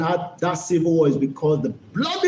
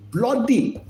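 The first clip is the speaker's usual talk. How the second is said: mocking echo; 6 semitones higher than usual. Echoes the word mockingly.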